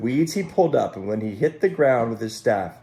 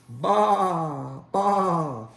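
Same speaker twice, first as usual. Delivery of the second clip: higher bleat; ram bleating; 7 semitones higher than usual. Acted. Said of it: "the rams said".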